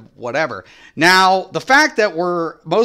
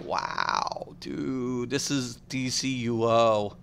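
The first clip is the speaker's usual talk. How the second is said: mock scoffing; 5 semitones lower, 10 dB quieter, much slower than usual. Mocking an elitist player.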